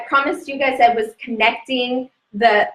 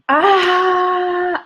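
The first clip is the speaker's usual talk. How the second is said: high, drawn-out open "ahh"; long "ahh" exhale; 8 semitones higher than usual. Real, not acted. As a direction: let out a long, high sigh before beginning. Long sung-out breath before starting.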